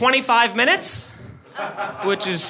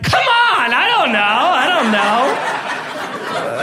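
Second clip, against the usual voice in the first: bashful, flattered cop; 3 semitones higher, much slower than usual. Retold or imitated. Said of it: "He's, like, blushing".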